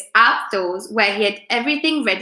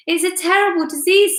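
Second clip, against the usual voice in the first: mock grave; 8 semitones higher than usual. A narrator's reading. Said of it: "said Mister Twit".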